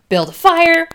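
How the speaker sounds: urgent field-medic command; barking orders. Retold or imitated. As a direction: bark the order at the crew. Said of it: "he's just barking off orders".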